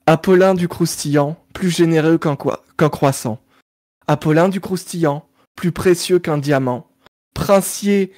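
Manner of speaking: spoken theme song lyrics, rhythmic; reciting lyrics. Acted. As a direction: recite it like a cartoon opening. Reads the cartoon theme lyrics. (paroles déclamées)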